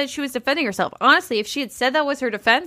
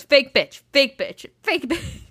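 mock repeat mode; 2 semitones higher, slower than usual. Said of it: "repeat mode and just goes".

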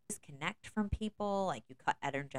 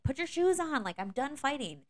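exasperated yell; 9 semitones higher, 4 dB louder than usual. Retold or imitated. Mom yelling at kids.

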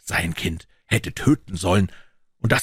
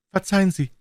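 much higher, fighting back sobs; a boy trying to sound like a man; young officer, choked up; 12 semitones higher, faster than usual. A narrator's reading. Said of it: "sagte er dann endlich". (junger Offizier, den Tränen nah, viel höher)

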